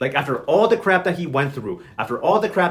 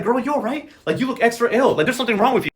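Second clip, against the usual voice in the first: higher-pitched mock concern; concerned questioning; 6 semitones higher than usual. Beatrice checks on her sick friend, high-pitched concern.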